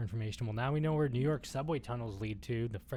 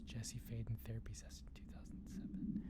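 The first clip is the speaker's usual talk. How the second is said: talking through a yawn; words stretched by a yawn; 9 dB quieter than usual. Real, not acted. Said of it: "Sorry, yawning".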